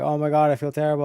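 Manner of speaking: quiet, unmoved imitation of remorse; mock monotone. Streamer mocking the suspect's show of remorse, in monotone. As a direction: softly mimic her monotone apology. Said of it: "In, like, a monotone voice".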